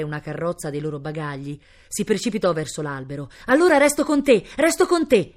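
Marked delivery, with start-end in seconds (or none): 3.5-5.3 put-on high, loud girlish cry; desperate plea. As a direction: cry it out impulsively while rushing over. Girl rushes to stay with him. (grido accorato)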